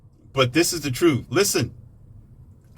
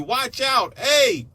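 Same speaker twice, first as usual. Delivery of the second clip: frantic warning shouts; 13 semitones higher, much slower than usual. Retold or imitated. Warning the listeners again, frantic high shouts. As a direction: scream at someone heading for danger. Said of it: "That's all I kept telling you".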